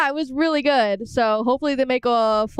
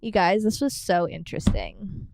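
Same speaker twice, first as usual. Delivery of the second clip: light valley girl imitation; 3 semitones lower than usual. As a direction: tease a friend's way of talking. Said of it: "I have a Valley Girl accent?".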